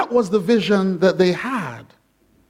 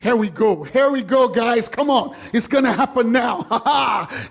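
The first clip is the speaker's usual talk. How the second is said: eager disciples; 2 semitones higher than usual. Retold or imitated. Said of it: "disciples must have been thinking".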